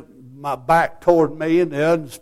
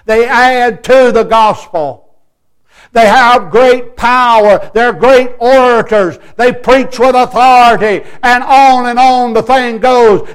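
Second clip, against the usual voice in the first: loud, raised Southern-style pulpit delivery; forceful preaching; 6 semitones higher, 7 dB louder than usual. Real, not acted. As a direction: preach it out with punched words. Preaches at full voice.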